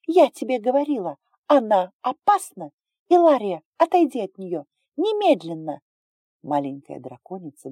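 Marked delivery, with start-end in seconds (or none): 0.1-5.8 hysterical yelling. Acted. Hysterical sister yelling warnings.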